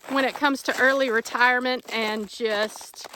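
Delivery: talking over crunching ice; walking on icy crunching ground; crunching footsteps. Real, not acted. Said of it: "sorry for all the crunching".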